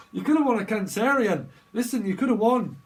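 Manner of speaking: loud, high game show host hype; hammed-up quiz host luring a losing contestant; Bob Holness host voice. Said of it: "Bob Holness".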